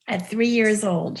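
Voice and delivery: touched, slowed-down amazement; sighing in awe. Real, not acted. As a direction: sigh it out, moved.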